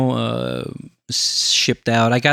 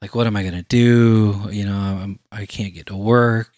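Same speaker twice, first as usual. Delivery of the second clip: pitiful plea; 2 semitones lower than usual. Retold or imitated. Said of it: "I laid it on thick".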